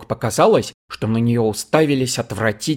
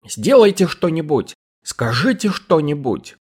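angry demand; 6 semitones higher than usual. A narrator's reading. Cherry angrily demands that Colvill do something. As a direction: snap at him to act.

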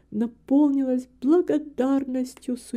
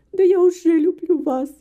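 higher, louder, heartfelt declaration; fervent reply; 6 semitones higher, 7 dB louder than usual. A narrator's reading. Daughter assures her father of her love, fervently. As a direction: answer with ardent feeling. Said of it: "горячо ответила Гертруда".

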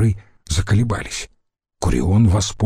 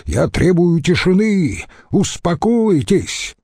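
high, insistent call to order; shouted demand; 7 semitones higher than usual. A narrator's reading. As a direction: demand calm in a raised cry. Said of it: "закричал он". (требовательный крик)

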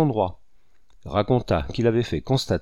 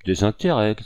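mild outcry. Acted. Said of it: "cria Mézère".

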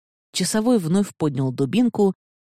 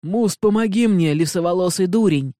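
louder, higher desperate plea; desperate cry for help; 3 semitones higher, 4 dB louder than usual. Acted. Arrested man begging his assistant for help, desperate cry. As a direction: shout for rescue as they drag you off. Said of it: "глухо крикнул он".

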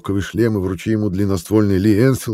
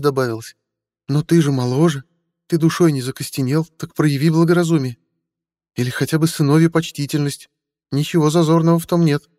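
put-on higher, pleading older woman; mother's voice; 9 semitones higher than usual. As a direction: coax him like a worried mother.

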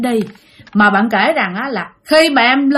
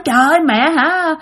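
mild higher-pitched annoyance, retold; resentful grumbling; 5 semitones higher than usual. Child grumbles at the unseen mother for not calling, mild resentment. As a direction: imitate a child complaining, mildly put out. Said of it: "bực bội, bạn hằn học".

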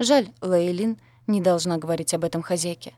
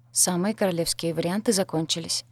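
usual speaking voice

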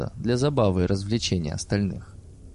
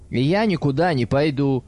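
exclaiming; 5 semitones higher than usual. A narrator's reading. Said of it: "воскликнул Борис".

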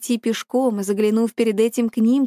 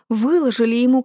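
ordinary delivery, nothing marked

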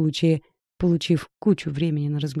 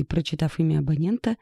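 usual speaking voice

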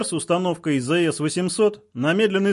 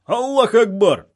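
high, loud, drawn-out chant shout; long rousing war cry, pitched high; battle-cry yell; 8 semitones higher, 6 dB louder, slower than usual. A narrator's reading. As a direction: yell it as a crowd of fighters would. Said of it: "снова заорали боевики".

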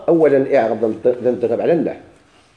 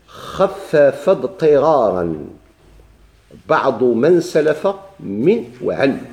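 slow chanted recitation of a grammar verse; measured Alfiya recitation; reciting the verse; much slower than usual. Shown as a demonstration. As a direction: intone it slowly, line by line. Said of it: "قال المصنف".

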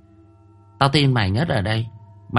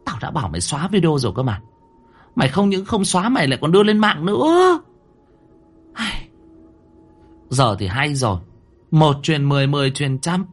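yelling; 9 semitones higher than usual. A narrator's reading. Mother yelling at daughter about the video. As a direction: yell at her in exasperation. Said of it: "Bà ta gào lên".

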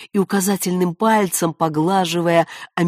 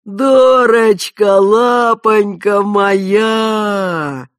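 put-on loud, slow, fond growling old man; tender growl; 3 semitones higher, 8 dB louder, much slower than usual. A narrator's reading. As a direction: growl it lovingly to a pet. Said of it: "ласково прорычал он".

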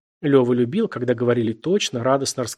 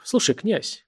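probing, secretive; 7 semitones higher, slower than usual. A narrator's reading. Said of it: "как-то испытующе секретно заговорил".

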